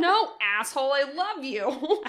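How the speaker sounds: bratty sister voice. Retold or imitated. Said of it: "He's like".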